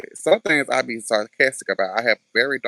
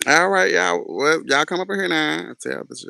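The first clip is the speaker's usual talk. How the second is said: slightly hammed-up, higher preacher's call; lightly acted preacher; 5 semitones higher, 4 dB louder than usual. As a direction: summon the congregation, half in character. Acts preacher summoning people to listen.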